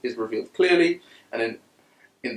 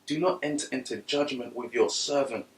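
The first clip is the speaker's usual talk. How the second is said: soft prayerful reading; 6 dB quieter than usual. Real, not acted. Reads the psalm softly.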